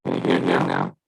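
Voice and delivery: glitchy robotic call audio; choppy, breaking-up voice; bad connection. Real, not acted. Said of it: "Still not glitching".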